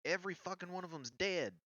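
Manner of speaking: high-pitched frantic announcement; distraught outcry. Acted. Ember tells the camp everyone is dead, distraught high outcry. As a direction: cry it out loud, then rush on.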